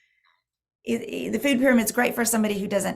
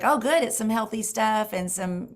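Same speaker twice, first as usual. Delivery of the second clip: pleased; 3 semitones higher than usual. Retold or imitated. Mother retelling her own reply.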